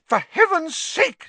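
exasperated nurse near hysterics; hysterical matron. Acted. Nurse protesting visitors in her hospital wing, hysterical and high. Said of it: "said Madam Pumphrey hysterically".

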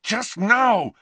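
restrained fury; barely held anger. A narrator's reading. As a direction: hold the yell back just barely. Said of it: "refraining from yelling".

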